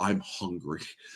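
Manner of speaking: angry, fuming, stuck for words. Retelling a movie scene, imitating an angry character. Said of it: "really angry".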